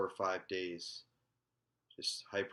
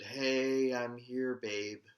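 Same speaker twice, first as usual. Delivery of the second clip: higher, drawn-out greeting, easing down at the end; 5 semitones higher, 6 dB louder, much slower than usual. Retold or imitated. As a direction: imitate a girl calling to her sweetheart. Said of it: "And she said".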